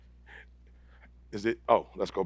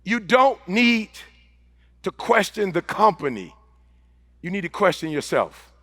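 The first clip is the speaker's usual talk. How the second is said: slow, deliberate, dropping softer; 3 semitones lower, 3 dB quieter than usual. Real, not acted. To the audience, slowing down deliberately. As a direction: spell it out slowly for the crowd. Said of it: "Let me slow down".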